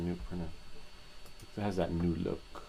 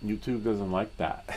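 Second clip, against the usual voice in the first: laughing; 3 semitones higher, 5 dB louder than usual. Real, not acted.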